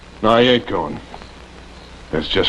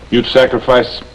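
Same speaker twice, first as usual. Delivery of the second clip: angry accusation; 3 semitones higher than usual. Acted.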